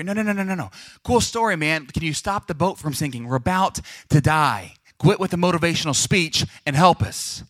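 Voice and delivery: high-pitched opening, exasperated plea; acted frantic protest. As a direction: interrupt the speech and beg for help. Disciples protesting as boat sinks.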